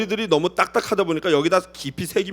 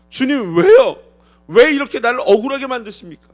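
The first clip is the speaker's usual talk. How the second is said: higher, louder pleading cry; mock outcry to God; 4 semitones higher, 5 dB louder than usual. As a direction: cry out to the Lord in protest. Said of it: "라고 소리치고 싶지 않겠습니까".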